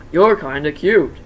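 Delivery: slow, loud flirtatious purr; flirty new Chica. Acted. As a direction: flirt while eyeing him. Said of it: "eyeing him up and down".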